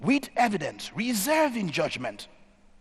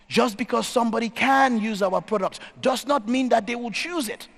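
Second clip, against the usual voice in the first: "can" punched higher, "choose" lifted high at the end; stress on can, choose; 4 semitones higher than usual. Shown as a demonstration. Speaker contrasts ability with choice, stressing "can" and "choose". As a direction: hit "can", then lift "choose" to contrast them.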